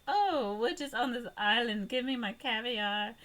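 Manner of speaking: lightly voiced snooty rich lady; posh rich couple. A hint of a snooty rich woman on holiday. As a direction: toss it off like a spoiled heiress. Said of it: "fancy rich, like, British couple".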